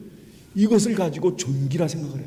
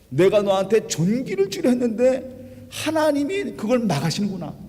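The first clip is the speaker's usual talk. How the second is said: acted angry scolding; 6 semitones higher than usual. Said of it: "분노하면서".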